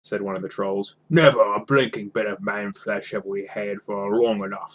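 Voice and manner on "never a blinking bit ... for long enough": lightly voiced grumbling troll.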